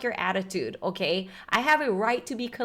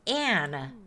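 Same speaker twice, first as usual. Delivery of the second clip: stern full name; 7 semitones higher, 7 dB louder, slower than usual. Acted. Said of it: "we're pulling out the middle name now".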